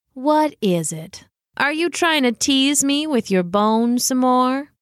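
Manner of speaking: slow, drawn-out feline purr; purring cat. Acted. Cat questioning the dog who teased her, purring. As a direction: toy with the visitor like a suspicious cat. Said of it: "she purred".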